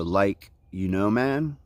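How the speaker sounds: slow, drawn-out "Like, you know, man?"; his surfer catchphrase. Shown as a demonstration. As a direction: announce it like a title in surfer drawl. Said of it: "I might title this video".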